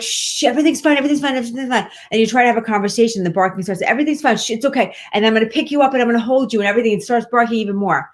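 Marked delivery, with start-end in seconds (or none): 0.0-1.9 soothing dog owner. Retold or imitated. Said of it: "You're like". 3.8-6.6 soothing dog owner. Retold or imitated. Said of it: "You're like".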